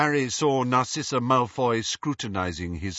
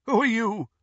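cold woman's voice; 12 semitones higher than usual. Acted. Woman challenges at door.

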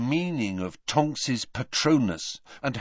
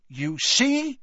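strained bitter remark. A narrator's reading. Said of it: "said a strained voice".

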